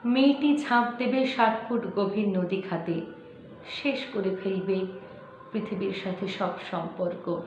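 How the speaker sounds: measured recitation, sinking at phrase ends; restrained dramatic verse reading; poetry recitation. Acted. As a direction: recite the story-poem with heavy pauses. Recites a poem.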